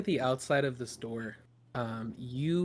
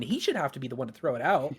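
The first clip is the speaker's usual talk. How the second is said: louder, rushed sibling protest; super annoyed; 5 dB louder, faster than usual. Acted. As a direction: argue it fast, as an aggrieved sister. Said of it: "super annoyed now 'cause she's like".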